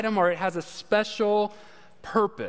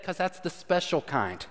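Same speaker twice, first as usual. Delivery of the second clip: lightly voiced mechanic, quiet and knowing; a hint of the mechanic, dropping the voice; mechanic, quieter; 3 semitones lower, 6 dB quieter than usual. Mechanic explaining the tail light to the customer, lightly voiced and quiet. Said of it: "He said".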